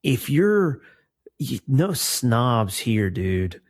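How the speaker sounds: lightly voiced cool cat beatnik. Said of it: "I don't know why I'm talking like a beatnik".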